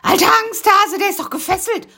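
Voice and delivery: high, loud and playful; calm him with a grin; reassuring teasing. Acted. Busy reassuring his scared friend, high-voiced. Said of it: "beruhigte Busy seinen Freund".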